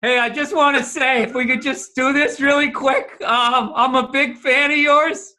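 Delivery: lightly mocked eager fanboy; Bert impression. The speaker mimicking Bert approaching celebrities, mildly gushing. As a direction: politely butt in like an awkward fan. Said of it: "this is Bert".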